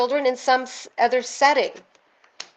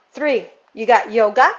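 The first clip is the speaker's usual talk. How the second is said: ordinary delivery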